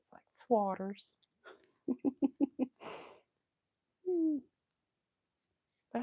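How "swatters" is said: "swatters" drawn out the Southern way; Southern pronunciation. Shown as a demonstration. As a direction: say "swatters" slowly in a Southern accent. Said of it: "'cause the way we say it".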